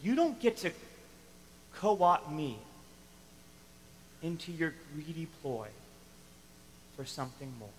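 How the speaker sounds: firm refusal. Retold or imitated. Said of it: "he's saying".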